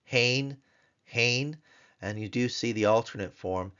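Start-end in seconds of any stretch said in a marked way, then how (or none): 0.0-1.6 hein as one syllable, hey plus a nasal n; Hebrew hein. Shown as a demonstration. Teacher modeling hein for the class, clear. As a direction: say hein twice, short and clear. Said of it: "hey with a tsere and a final form nun".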